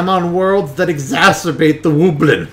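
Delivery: high slow excuse; defensive excuse. Retold or imitated. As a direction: plead your case. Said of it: "You're like".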